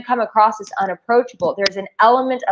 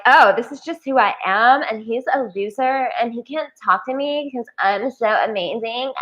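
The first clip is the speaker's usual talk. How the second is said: put-on LA girl voice. Imitating an LA girl brushing off a guy, mock stuck-up. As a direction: mimic a stuck-up LA girl showing off. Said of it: "that's how girls in L A talk".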